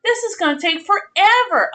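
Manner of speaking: high, whiny mock crying; mock despair. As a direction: wail it like a tiny tragedy. Dismay at needing two workers.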